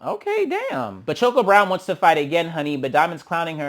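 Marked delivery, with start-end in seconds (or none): 0.0-1.0 much higher, squealed okay okay damn; high-pitched mock awe; impressed squeal. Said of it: "I'm just like".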